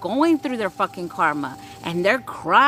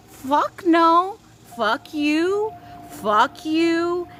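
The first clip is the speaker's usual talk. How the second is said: defiant curse; 7 semitones higher, much slower than usual. Acted. Defiant cursing off.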